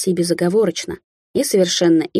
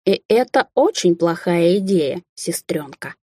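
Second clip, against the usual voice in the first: menacing hiss; slower than usual. Acted. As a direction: hiss the warning at his sister. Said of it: "прошипел Амбер".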